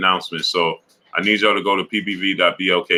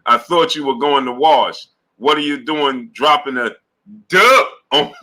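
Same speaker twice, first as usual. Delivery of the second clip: higher, louder, rising mock scold as his girl; mock girlfriend scolding; 5 semitones higher, 4 dB louder than usual. Retelling a viewer's girlfriend catching him, mock incredulous scold. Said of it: "and she said".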